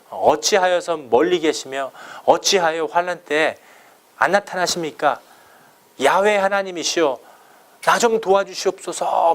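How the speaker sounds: mildly imploring, as a psalmist's prayer; pleading complaint. Retold or imitated. Psalmist cries out to God in distress, mild pleading complaint. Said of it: "막 이렇게 원망까지 했어요".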